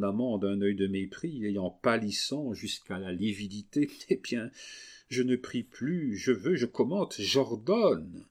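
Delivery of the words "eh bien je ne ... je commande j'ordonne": imperious tone. Acted. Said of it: "d'un ton impératif".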